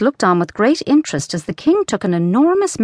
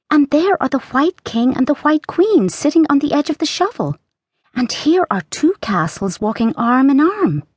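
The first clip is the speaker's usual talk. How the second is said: put-on high, bright girl's voice; young girl Alice; 7 semitones higher than usual. A narrator's reading. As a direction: read as a curious young girl.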